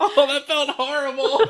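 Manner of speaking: very high, drawn-out, choked, just-gagged lament. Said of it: "I just gagged on my water".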